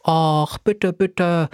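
put-on coaxing girl, fluting the begging words; sweet pleading. A narrator's reading. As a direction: sweet-talk the professor into it. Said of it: "flötete unsere Überredungskünstlerin Laura".

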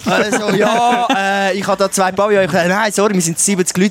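flustered self-quote. Retold or imitated. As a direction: play yourself caught out and stammering. Spielt sich selbst beim Verhandeln nach. (leicht gespielt verlegen, höher)

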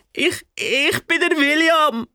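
put-on high, slow little boy voice. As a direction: introduce yourself like a small prince. Boy introduces himself.

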